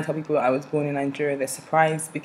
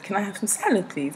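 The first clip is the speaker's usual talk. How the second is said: put-on polite English accent, raised pitch; 4 semitones higher, 4 dB quieter, faster than usual. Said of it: "with my English accent".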